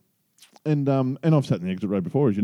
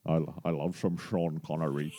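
lightly voiced, lower impression; Sean Connery; 7 semitones lower, 10 dB quieter than usual. Host jokes about loving the actor, lightly imitating him. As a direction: drop low and soft into a hint of the actor.

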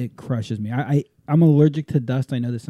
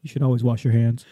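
deadpan quote; 3 semitones lower than usual. Retold or imitated. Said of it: "it was just very like".

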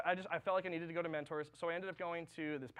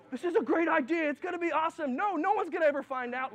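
high, loud tempting inner voice; brain voices; 9 semitones higher, 8 dB louder than usual. Acted. Voices in his head egging him on, high and loud. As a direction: sell the bad idea like a gleeful little devil. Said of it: "The people in my brain".

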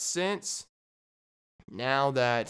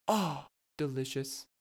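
mock buyer; 4 dB quieter than usual. Acting the buyer.

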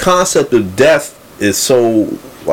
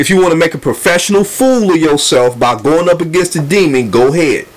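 higher-pitched imitated provocation; Lupe talking spicy; 5 semitones higher than usual. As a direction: imitate a spicy warning to a challenger. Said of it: "talking real spicy".

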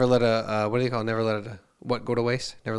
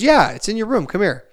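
put-on much higher, louder little girl; chirpy daughter voice; 7 semitones higher, 4 dB louder than usual. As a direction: voice the excited kid proudly. Voicing his young daughter.

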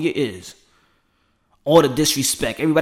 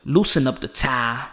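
building to a fired-up call; 2 semitones higher than usual. Retold or imitated. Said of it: "and I'm like".

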